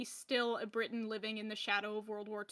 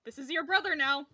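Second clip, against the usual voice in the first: laughing, louder announcement of a new brother; mock parent; 3 semitones higher, 6 dB louder than usual. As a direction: present the mouse proudly to the kids. Mock parents presenting mouse.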